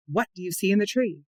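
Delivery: "what" leaned on at the head of the question; emphasize the word "what", then ask the rest evenly; cueing question with weight on "what"; stress on what. Shown as a demonstration. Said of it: "Notice how I emphasize the word what".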